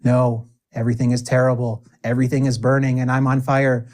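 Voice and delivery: fast, mock-dramatic doom; mock gloomy answer. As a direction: rattle it off like it's all hopeless, tongue in cheek. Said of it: "And the answer is".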